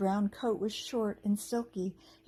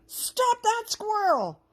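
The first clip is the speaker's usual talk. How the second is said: high, slow, loud goblin yell; goblin shout; 14 semitones higher, 7 dB louder, much slower than usual. A narrator's reading. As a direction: stretch it out as a furious goblin. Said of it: "one of them shouted".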